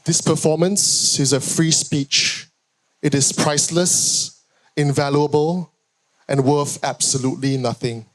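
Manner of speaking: measured closing verse, settling down at the end; poetry recital. Acted. Poet closing the poem on free speech, deliberate recital. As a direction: land each phrase separately, with pauses. Closes own poem aloud.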